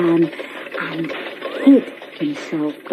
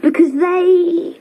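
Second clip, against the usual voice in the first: put-on much higher and slow child's voice; other twin; 9 semitones higher, slower than usual. A narrator's reading. Second twin finishing the warning, high and slow. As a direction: drag it out like a solemn little twin. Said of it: "said Tim".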